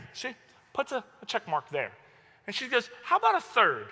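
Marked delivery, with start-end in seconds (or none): 3.0-3.9 raised pitch, controlled threat; teacher's challenge. Retold or imitated. Teacher offering another check mark to an arguing student, controlled challenge. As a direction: offer it as a pointed warning, without shouting.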